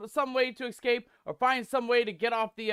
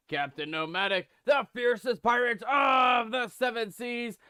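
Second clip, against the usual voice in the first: pirate captain voice. Acted. Host introduces his pirate persona.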